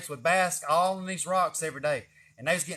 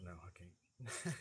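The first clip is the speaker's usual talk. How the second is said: low mock reply; 9 semitones lower, 18 dB quieter, much slower than usual. Mock self-talk, low, slow.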